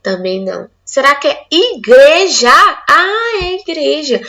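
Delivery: playful trial and error. Pretend. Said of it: "Então, vamos lá".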